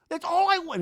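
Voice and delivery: high, loud mock wail; imitated scream. Drunk Zach screaming for support, high mock shriek. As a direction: cry out in hammed-up desperation. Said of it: "He screams".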